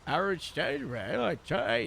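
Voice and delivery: "Harold stayed well" in the same accent without the pushed-down tongue; the plain-throat take of the Harold accent; Harold accent, not pushed down. Shown as a demonstration. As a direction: lighter take, tongue relaxed, no extra depth. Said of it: "the accent without the pushing down".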